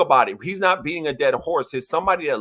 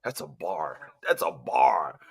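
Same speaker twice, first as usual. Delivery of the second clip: hushed whisper of approval; 4 semitones lower, 6 dB quieter, slower than usual. Real, not acted. Podcast host to cohost, whispering his praise. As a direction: breathe it out in awe, no voice.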